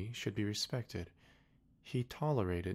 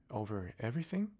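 higher, rising disbelieving question; astonished echo; 3 semitones higher than usual. Acted. Little prince doubting the king's claim, higher rising.

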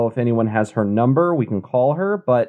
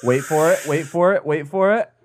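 rising higher with each repeat; building suspense; 5 semitones higher than usual. Pretend. Co-host hyping up the beer's strength reveal, suspenseful. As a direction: tease the reveal, stepping the pitch up each time.

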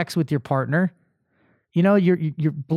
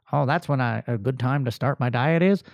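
mocking excuse voice; 7 semitones lower, 4 dB quieter than usual.

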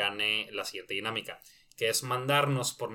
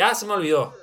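mock forgetful winner; 8 semitones higher, 9 dB louder than usual. Voices winner who forgot the prize.

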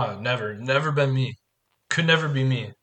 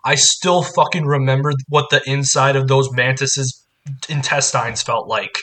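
pissed-off quote, louder at first; mock angry, slowing into the gross detail; 3 dB louder than usual. Resurrected man to Frankenstein about being eaten, pissed off. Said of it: "he's pissed at Frankenstein".

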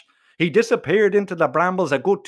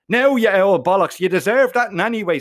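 triumphant shout; 2 semitones higher, 4 dB louder than usual. Acted. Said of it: "so I screamed".

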